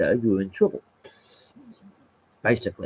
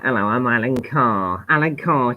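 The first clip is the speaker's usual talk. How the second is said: Alan Carr impression; 3 dB louder than usual. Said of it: "he got a voice like that".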